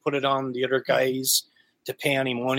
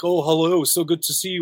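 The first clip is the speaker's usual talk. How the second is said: fake friendly. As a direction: imitate insincere schmoozing pleasantries. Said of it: "everyone's fake".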